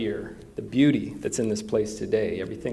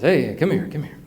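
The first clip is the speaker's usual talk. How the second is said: raised voice hailing someone; calling out; 5 semitones higher, 5 dB louder than usual. Retold or imitated. Minister waving down the farmer, calling out. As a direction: call him over from the road.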